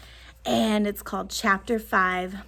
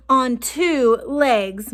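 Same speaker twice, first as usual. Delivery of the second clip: mom yells; 5 dB louder, much slower than usual. Acted. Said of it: "my mom yells".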